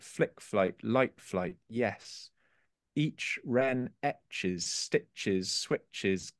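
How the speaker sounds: slow, measured poetry reading; deliberate, rhythmic verse delivery; poem recitation. Acted. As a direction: read the poem slowly, lingering on the key words. Reads a poem aloud.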